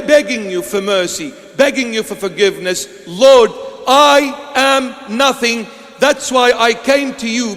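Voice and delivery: usual speaking voice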